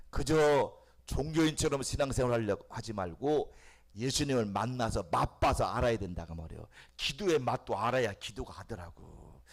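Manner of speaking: ordinary delivery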